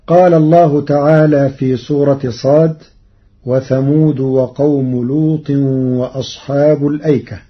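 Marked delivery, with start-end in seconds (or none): 3.5-7.4 الأيكة read with hamza, vowel-less lām; الأيكة said as al-ayka; the Hafs reading. Shown as a demonstration. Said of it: "قرأ ورش كلمة الأيكة". (قراءة الأيكة بالهمز)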